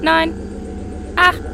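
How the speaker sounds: rising countdown to liftoff; computer countdown. Acted.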